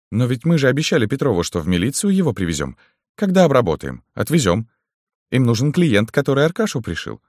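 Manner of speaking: high-pitched underling's objection; high henchman voice, explaining; henchman Zhora, protesting. A narrator's reading.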